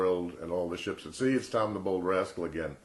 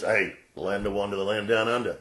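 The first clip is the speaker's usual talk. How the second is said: put-on Australian accent; 3 dB louder than usual.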